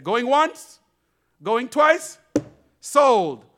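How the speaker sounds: loud, high auctioneer call. Acted. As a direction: bang out the sale call. Auctioneer closing the sale.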